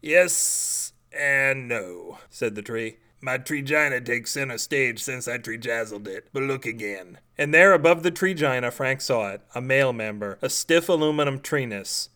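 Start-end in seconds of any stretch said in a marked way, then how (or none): 0.0-7.2 soft, lower tree voice, matter-of-fact; a grumpy tree politely declining to kill; talking tree. Acted.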